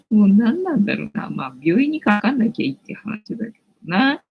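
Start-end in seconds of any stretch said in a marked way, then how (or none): 0.1-1.3 louder, laughing exasperation; laughing repeat. Real, not acted. Streamer laughing at the penalty rules to viewers. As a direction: laugh off the annoyance.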